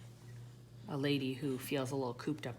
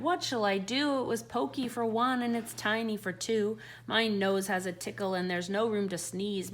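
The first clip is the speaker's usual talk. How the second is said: put-on higher, pleading little old lady; 6 semitones higher than usual. The old lady begs the wise old man, higher and pleading. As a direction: beg the wise man for help.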